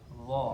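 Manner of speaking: "Dha" as a heavy voiced th; thick, rounded zha on "Dha"; thick sound. Shown as a demonstration. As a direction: lift the tongue back on "Dha". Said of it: "yang tebal".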